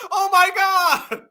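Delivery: high-pitched, hammed-up outrage; mock mad man. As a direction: wail it like a scandalized man. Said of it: "you know what he mad at".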